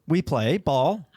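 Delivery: drawn-out cartoon dog request; Doug. Dog asking owner to play, slow dog voice. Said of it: "It'd be Doug from Up".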